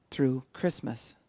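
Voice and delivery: slow, quiet-ending answer. Acted. Wife setting how long to talk slowly, very slow. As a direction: give it slowly, word by word. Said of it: "he slowed it that far down".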